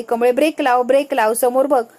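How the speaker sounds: loud urgent calls to brake; yelling after her. Acted. Ningi shouting to Kamali as her bike runs downhill, loud and urgent.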